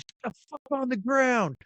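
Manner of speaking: high retold yell; mock threatening shout. Knife guy ordering them down, retold mock yell. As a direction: bark the order in a put-on voice. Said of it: "he goes".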